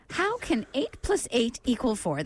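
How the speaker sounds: moderately slow riddle reading; deliberate but flowing quiz question; measured repeat. Real, not acted. Repeating the brain teaser less slowly.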